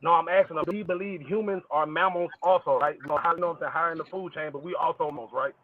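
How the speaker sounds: muffled, garbled bad-connection audio; like talking from underwater. Real, not acted. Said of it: "sound like you underwater".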